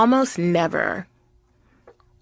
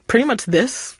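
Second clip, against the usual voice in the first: white voice; 5 semitones higher than usual. Shown as a demonstration. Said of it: "what's your white voice sound like".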